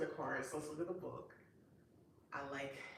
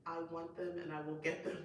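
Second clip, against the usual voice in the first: determined vow; faster than usual. Retold or imitated. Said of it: "It's me, I was like".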